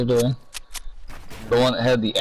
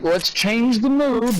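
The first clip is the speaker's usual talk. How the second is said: much higher, slow showman line; Cat in the Hat voice; 10 semitones higher, much slower than usual. Retold or imitated. Retelling the movie to a friend, a high slow cat voice. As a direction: croon it like a sly cartoon cat. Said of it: "he's like".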